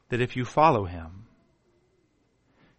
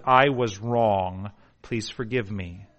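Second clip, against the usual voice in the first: humble confession; 4 semitones lower, slower than usual. Retold or imitated. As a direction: plead humbly for forgiveness. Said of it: "looks people square in the eye and says".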